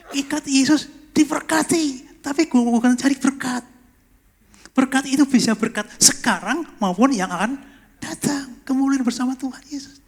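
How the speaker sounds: high-energy pulpit delivery; forceful preaching. Real, not acted.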